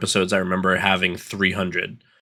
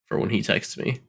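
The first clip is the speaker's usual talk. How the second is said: whispered aside; 7 dB quieter than usual. Real, not acted. Joking aside about friend.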